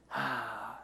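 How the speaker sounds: low, soft sigh of reluctance; long breathy sigh. Acted. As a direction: let out a long exhale. Second voice sighs after its excuse.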